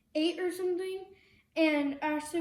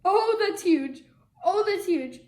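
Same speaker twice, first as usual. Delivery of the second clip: amazed; 3 semitones higher, 9 dB louder, slower than usual. Real, not acted. Bubble amazement.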